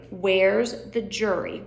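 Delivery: drawn out slow question. Shown as a demonstration. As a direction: stretch the words out slowly. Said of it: "repeated slower".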